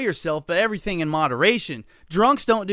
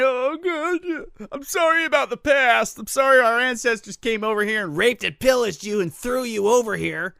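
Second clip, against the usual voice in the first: high, loud hammed-up sobbing apology; mock crying; 5 semitones higher, 3 dB louder than usual. Radio host mocking the secretary's tearful pledge to tribes, mock crying. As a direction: wail it in exaggerated fake tears. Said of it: "she's crying".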